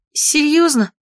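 bright, lifted "seriously?"; glad surprise. A narrator's reading. Katya, happy the ritual is off, excited. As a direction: perk up at good news. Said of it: "обрадовалась Катя".

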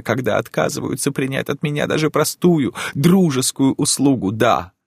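reproachful begging. Acted.

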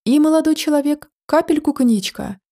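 bossy order to the waiter; commanding order. Acted. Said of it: "Скомандовала она".

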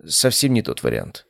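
usual speaking voice

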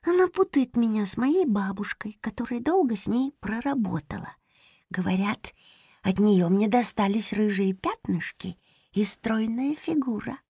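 high unvoiced hamster whisper; whispered reply. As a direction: whisper it close so she won't hear. (шёпот хомячка)

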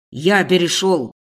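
slow, loud, low rumbling retort; booming. A narrator's reading. Boss asserts he switched to informal ты, slow booming roar. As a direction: drop it slow and heavy like thunder. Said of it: "грохочет Ветров".

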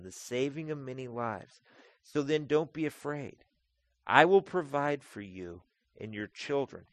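gentle reassurance. Acted. Joseph speaking kindly to frightened brothers, gentle. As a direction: comfort them, unhurried.

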